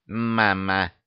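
a hint of baby stubbornness, no squeak; mildly obstinate child, insisting; stubborn insistence. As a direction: plant the word and refuse to budge. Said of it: "упрямо заявила Роксана".

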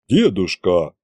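drawn out. A narrator's reading. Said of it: "протянул Колымдай".

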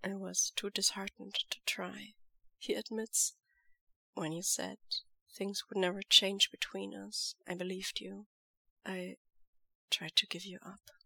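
soft firm lover's voice; quiet devoted lover. Acted. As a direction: hold him close with quiet certainty. Lan Zhan admits.

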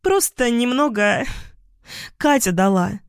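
put-on tipsy girl. A narrator's reading. Drunk girl answers evasively. (высоким голосом подвыпившей девушки)

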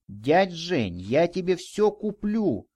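put-on high-pitched boyish plea; almost pleading. A narrator's reading. Boy offering to buy the man everything, pleading. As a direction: beg him, pitch climbing high. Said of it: "почти что взмолился мальчик".

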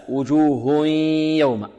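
وجوه يوم joined with a held nasal hum on the ya; merging with ghunnah. Shown as a demonstration. Quran teacher shows students the correct merging with ghunnah. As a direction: hum through the nose as وجوه glides into يوم. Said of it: "غنة من الخيشوم".

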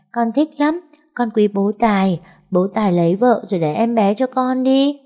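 put-on a happy small girl blurting it out; cheerful child. Little girl answering grandma about calling Tài dad, cheerfully. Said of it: "Con bé nhoẻn miệng cười nói ngay".

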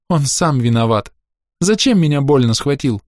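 put-on a hurt child justifying herself; crying girl explaining what happened; tearful child. A narrator's reading. Crying girl blaming grandfather.

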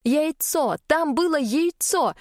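high, slow gasp of wonder; amazed delight. A narrator's reading. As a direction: narrate it with breathless amazement. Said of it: "от удивления и восторга".

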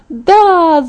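high-pitched gleeful yes; triumphant cry. A narrator's reading. Friend clapping as she wins, triumphant cry. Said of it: "завопила она".

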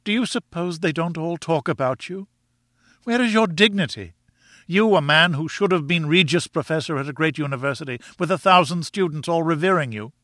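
high-pitched scolding wife; indignant cry. A narrator's reading. Wife shaming husband over his lost dignity, indignant cry. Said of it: "she cried".

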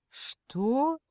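high, sharply rising question; surprised. A narrator's reading. Aunt puzzled by the kidnapper's quotation, surprised. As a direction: ask it in astonishment, pitch shooting up. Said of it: "удивлённо переспросила Розалия Степановна".

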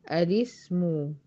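الاسم very slow, opening with a fatha on the hamza and a kasra on the لام; slow pronunciation demo. Shown as a demonstration. Teacher shows students the first way to start the word, very slow. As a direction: draw out الاسم slowly as the first option. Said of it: "أول وجه إن أنا أقول الاسم".

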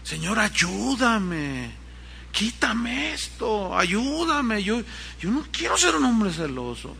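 slow, lightly pleading prayer, a hint of tears; tearful prayer. Jorge Fox begging God to take away jealousy, mild pleading. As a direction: voice his anguished plea to God, slowly and softly. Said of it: "lloraba, dice la historia".

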